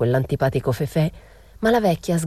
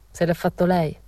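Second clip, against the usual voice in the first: discontented and mocking; 3 semitones higher than usual. A narrator's reading. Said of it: "con quell'aria scontenta e beffarda".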